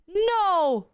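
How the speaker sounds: high, drawn-out refusal; put-on high voice, stretched out; mock picky girlfriend. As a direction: imitate a girlfriend vetoing the idea. Mimicking girlfriend rejecting food suggestions.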